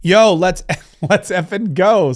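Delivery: a hint of a hyped-up hype woman; lightly voiced VA lady cheering. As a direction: cheer it loud, then slow the effing go. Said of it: "says my V A lady".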